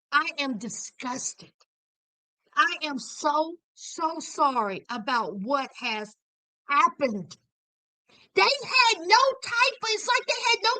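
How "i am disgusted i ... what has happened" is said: pretend apology. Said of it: "did they ever, ever say".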